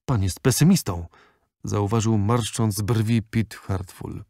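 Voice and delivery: usual speaking voice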